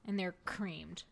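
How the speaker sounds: whispered punchline, unvoiced; hushed cheeky whisper. Real, not acted. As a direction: breathe it out as a sly joke. Whispered punchline of joke guess.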